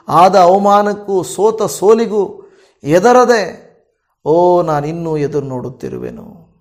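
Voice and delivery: fervent prayer. Acted. Pastor prays aloud for listeners.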